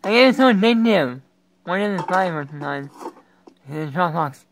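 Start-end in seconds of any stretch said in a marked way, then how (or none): 0.0-1.2 loud, high burst of joy; delighted exclamation. Real, not acted. Player spotting Candy Crush, delighted exclamation. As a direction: cry it out with delight. Spots favourite game.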